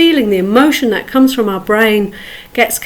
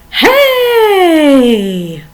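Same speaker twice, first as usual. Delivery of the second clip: calling hey; 5 semitones higher than usual. Shown as a demonstration. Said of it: "Really go for it".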